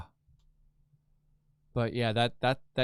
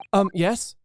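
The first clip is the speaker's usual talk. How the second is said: lawyer; 7 semitones higher, 5 dB louder than usual. Acted. Voicing the Japanese lawyer character.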